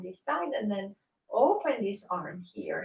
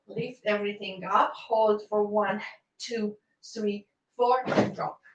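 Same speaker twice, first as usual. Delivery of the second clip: loud counted hold, held words; calling out counts; 5 dB louder than usual. Shown as a demonstration. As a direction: call the count across the room. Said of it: "counting the hold aloud".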